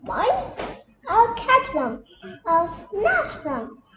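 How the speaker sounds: boastful cat. Acted.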